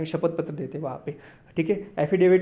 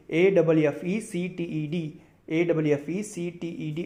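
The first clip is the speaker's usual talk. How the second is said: slow spelling; slower than usual. Shown as a demonstration. Teacher spells अफेक्टेड to students, slowly letter by letter. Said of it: "next word है अफेक्टेड".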